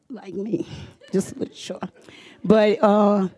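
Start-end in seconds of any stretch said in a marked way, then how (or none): 0.1-1.9 soft voiceless joke under her breath; whispered aside. Real, not acted. Mother adding a joke about herself to the audience, whispered.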